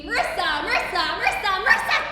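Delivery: repeating her name, building from normal to a high loud cry; mock obsessed repeating. Girl mocks boyfriend's constant talk of Marissa, building to a loud cry. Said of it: "every word out of his mouth started to be".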